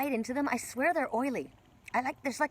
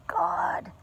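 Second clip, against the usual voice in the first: whispered; 10 semitones higher than usual. Real, not acted. Awed at the beautiful view.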